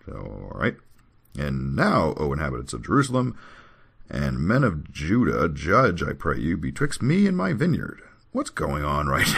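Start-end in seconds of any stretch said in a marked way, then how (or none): 1.4-8.0 declaimed appeal from holy writ; measured recitation with set pauses; scripture reading. Acted. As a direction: read it out formally, rising at the end. Reads scripture aloud.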